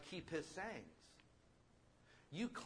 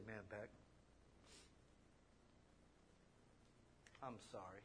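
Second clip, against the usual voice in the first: quiet apology; 7 semitones lower, 18 dB quieter than usual. Retold or imitated. Husband apologising to hurt wife.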